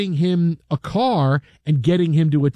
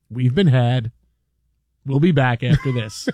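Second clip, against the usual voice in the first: wry calm sign-off; 5 semitones lower than usual. Retold or imitated. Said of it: "he smiles".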